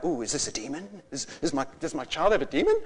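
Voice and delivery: hushed, mildly worried questioning; concerned parents. Retold or imitated. Parents wondering about their child, mildly concerned. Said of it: "parents getting a bit concerned".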